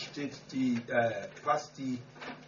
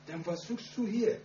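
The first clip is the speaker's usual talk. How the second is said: shocked question; 9 semitones higher, 4 dB louder than usual. Retold or imitated. Confronting the witch sister.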